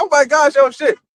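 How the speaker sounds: put-on high, loud, giggly, excited shriek. Telling a story about people at the rocks hit by a wave, imitating loud giggling. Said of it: "they'll giggle real loud and shit".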